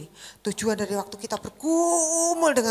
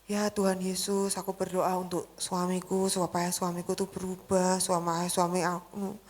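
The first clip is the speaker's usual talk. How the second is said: mock complaining prayer; 4 semitones lower than usual. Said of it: "berdoanya nggak berdoa yang gini".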